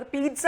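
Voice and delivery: പീറ്റ്സ with a long ee and a ts sound, peetsa; correct pronunciation. Shown as a demonstration. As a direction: say പീറ്റ്സ like Peter plus tsa. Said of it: "correct ആയിട്ടുള്ള pronunciation". (പീറ്റ്സ ശരിയായ ഉച്ചാരണം)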